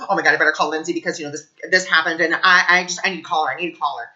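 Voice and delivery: fast fretful self-talk; anxious ego voice. Retold or imitated. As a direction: rattle it off in a fast mild panic. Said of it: "That's anxiety".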